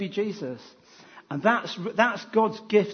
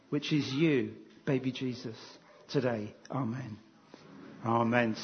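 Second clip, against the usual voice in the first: prayer; 2 semitones lower than usual. Real, not acted. Leads a prayer.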